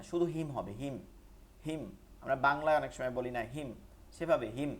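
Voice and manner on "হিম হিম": "হিম" with a short i; no stretch. Shown as a demonstration. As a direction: say "হিম" plainly without lengthening the vowel. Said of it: "এটা টান হবে না". ("হিম" টান ছাড়া)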